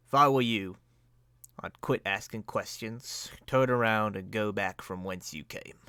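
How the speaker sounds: gravelly warning from a thug; deep gravelly villain. Acted. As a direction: warn them off in a rough voice. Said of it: "a deep kind of, uh, gravelly, uh, voice".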